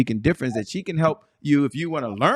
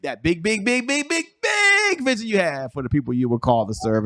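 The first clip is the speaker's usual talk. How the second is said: show host opening; 3 semitones higher than usual. Acted. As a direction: hype up the show, stretching the key words.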